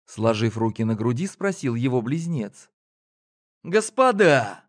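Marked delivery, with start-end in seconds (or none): 3.6-4.6 high, slow exasperated appeal; exasperated call. A narrator's reading. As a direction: burst out unable to hold back. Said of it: "не удержался Гоша". (возмущённо и протяжно)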